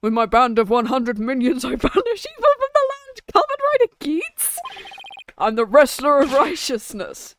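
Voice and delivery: righteous wrestler's proclamation; put-on heroic champion voice; Balance. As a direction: announce yourself as the hero. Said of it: "I'm giving him balance voice".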